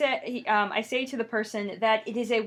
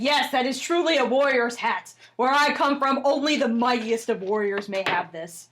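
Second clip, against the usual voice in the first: a little louder, grand; proud warrior; 5 dB louder than usual. Acted. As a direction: proclaim it proudly. Proud warrior accepts hat.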